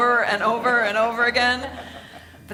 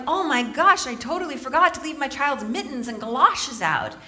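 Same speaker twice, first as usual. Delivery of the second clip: mock freak-out; 4 semitones higher than usual. Mother thinks she forgot her child's mittens, mock freak-out. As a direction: blurt it in mild comic alarm. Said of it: "freaking out".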